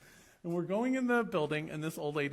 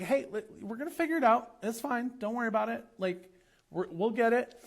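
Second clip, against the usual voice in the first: retold reassurance; 5 semitones higher than usual. Reassuring a flustered child.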